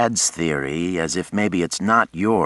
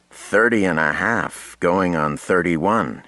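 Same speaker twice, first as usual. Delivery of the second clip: twinkling, teasing. Acted. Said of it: "he said with a twinkle".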